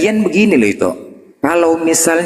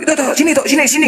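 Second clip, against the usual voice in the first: calling out; 10 semitones higher, much faster than usual. Retold or imitated. Neighbour calling her over.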